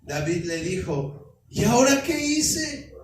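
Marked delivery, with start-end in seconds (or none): 1.5-2.9 indignant protest. Acted. David protests to his brother.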